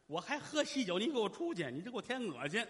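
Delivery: put-on indignant old mother throwing someone out; enraged old woman. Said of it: "老太太眼珠子都快瞪出血来了".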